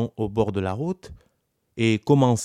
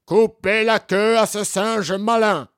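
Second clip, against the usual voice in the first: higher, louder commanding judge; stern judge's order; 10 semitones higher, 6 dB louder than usual. Acted. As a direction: hand down the sentence.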